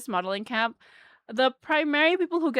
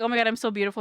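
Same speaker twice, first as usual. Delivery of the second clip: mock boastful, showing-off tone. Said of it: "trying not to sound like I'm flexing".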